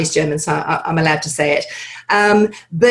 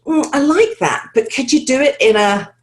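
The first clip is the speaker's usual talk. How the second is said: lightly voiced director, higher-pitched at first; musing director making a request; director's voice; 5 semitones higher than usual. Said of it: "if the director suddenly goes".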